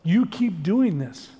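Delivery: very slow, every word weighed; slow, firm warning. Retold or imitated. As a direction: drag out each word like a final verdict. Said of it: "And he said".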